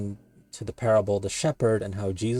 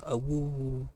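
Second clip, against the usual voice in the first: wolf howl; 4 semitones higher, slower than usual. Retold or imitated. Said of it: "And then he goes".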